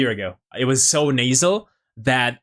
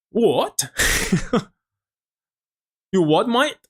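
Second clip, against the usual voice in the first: baffled; 6 semitones higher, slower than usual. Real, not acted. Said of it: "I didn't get that at all".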